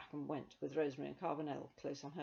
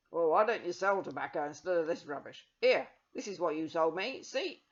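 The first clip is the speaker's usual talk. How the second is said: angry customer; 10 dB louder than usual. Acted.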